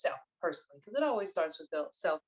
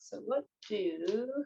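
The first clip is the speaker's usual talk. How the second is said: soft, slowed-down question to the cards; reverent invocation; 7 dB quieter than usual. Real, not acted. Reader asks the divine feminine for guidance, soft invocation. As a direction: ask it gently, trailing off softer.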